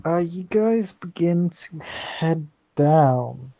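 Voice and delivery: slow, yawning through the words. Real, not acted. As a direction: talk mid-yawn, drawn out. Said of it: "I was yawning".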